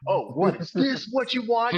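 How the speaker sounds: high, loud, mock-exaggerated whining; over the top. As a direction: ham it up in malicious compliance. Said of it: "go over the top".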